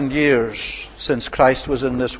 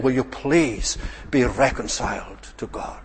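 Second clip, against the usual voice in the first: pleading; 3 semitones lower, 7 dB quieter than usual. Retold or imitated. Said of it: "pleading and begging and saying".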